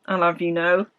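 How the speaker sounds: put-on French said in an estuary accent; cockney-ish estuary French. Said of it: "said in a real estuary accent".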